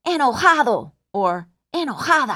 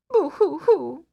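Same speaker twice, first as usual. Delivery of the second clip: fake crying; 4 semitones higher than usual. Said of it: "Now let's pretend to cry".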